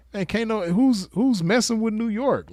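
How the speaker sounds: rhetorical, excited dare to the listeners; excited challenge. Real, not acted. Hyping New York's rappers.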